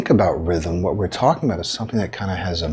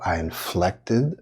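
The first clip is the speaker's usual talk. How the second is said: "inflected" drawn out with a lift in pitch; slow, modulated "inflected"; inflected word; 3 dB quieter, slower than usual. Shown as a demonstration. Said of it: "I inflected on the word".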